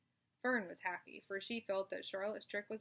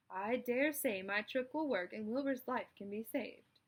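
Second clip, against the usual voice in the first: raised, louder spider voice; spider's speech; 3 semitones higher, 4 dB louder than usual. Acted. Charlotte explains her trick to the animals, confident. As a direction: address the barn like a chairwoman.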